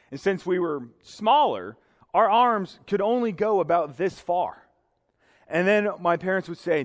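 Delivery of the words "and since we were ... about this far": ordinary talk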